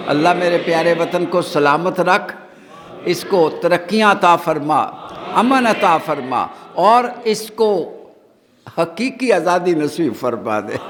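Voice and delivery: measured public supplication, phrase by phrase; leading a prayer. Real, not acted. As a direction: plead for each blessing, pausing for the amen. Leads a prayer for the homeland. (ٹھہر ٹھہر کر اجتماعی دعا)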